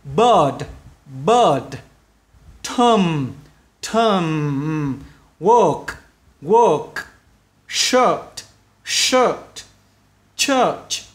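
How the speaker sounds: each word said twice with a long er vowel; long er sound. Shown as a demonstration. Teacher repeating long er words for class. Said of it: "kéo dài ra".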